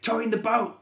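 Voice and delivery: badly faked Jersey accent; attempted Jersey accent. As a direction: shout it in a rough go at Jersey. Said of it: "it's a Jersey accent".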